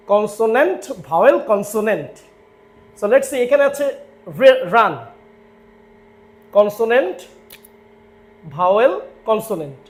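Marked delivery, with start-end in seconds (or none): 0.1-2.1 consonant, vowel, consonant drawn out very slowly, each word separate; slow spelled-out pattern. Shown as a demonstration. Teacher to class explaining the CVC rule, very slow and deliberate. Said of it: "সিবিসি means". 6.6-9.8 consonant, vowel, consonant drawn out very slowly, each word separate; slow spelled-out pattern. Shown as a demonstration. Teacher to class explaining the CVC rule, very slow and deliberate. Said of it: "সিবিসি means".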